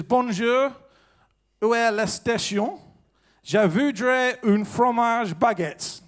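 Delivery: slow, carefully spoken French phrases. Shown as a demonstration. Comedian shows off his school French, slow. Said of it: "I've been practicing some French".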